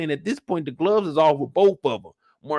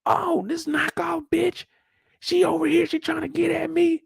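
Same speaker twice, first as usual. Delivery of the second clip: mock outrage; 10 semitones higher than usual. Imitating a cast member, high and indignant. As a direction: whine it high and offended.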